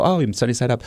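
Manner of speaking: lightly sarcastic repeat of his answer. Retold or imitated. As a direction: play along, teasing. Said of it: "sarcastic line of questioning coming his way".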